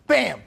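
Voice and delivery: loud sudden "bam!" up high; sudden shouted bam in the retelling; mock crash shout. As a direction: punch out the crash noise. Crash in retold accident.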